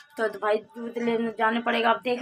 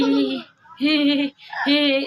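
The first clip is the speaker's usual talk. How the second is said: imitating baby giggle; 3 semitones higher, 4 dB louder, slower than usual. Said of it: "ऐसे कर रहा है".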